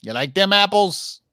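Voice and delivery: bad Boston accent; hammy Boston tough guy. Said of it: "That's my Boston accent. It's awful".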